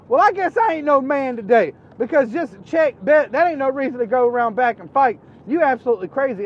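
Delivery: high, loud, fed-up lecture; exasperated refusal. Retold or imitated. Narrator tells cousin the fight is crazy, loudly fed up. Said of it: "And I was like".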